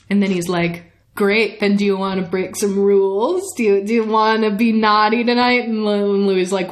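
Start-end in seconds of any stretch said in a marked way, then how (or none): 1.2-5.6 mischievous, slightly raised come-on; playful temptation. Retold or imitated. Lestat talks Louis into breaking rules, mock-naughty coaxing. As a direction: tempt them with a naughty proposal.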